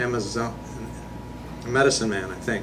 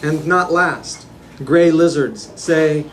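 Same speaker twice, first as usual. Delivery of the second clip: incantatory list-like poem recital; poetry reading; 2 semitones higher than usual. Acted. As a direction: declaim each phrase evenly, firmly projected. Reads own poem aloud.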